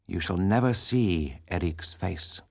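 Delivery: unruffled masked man, slow and low; serene. Acted. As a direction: calmly close the matter. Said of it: "He replied serenely".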